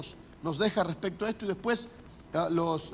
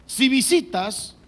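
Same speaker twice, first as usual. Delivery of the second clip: slow title read; 5 semitones higher, 5 dB louder, slower than usual. Acted. Reading the article title aloud.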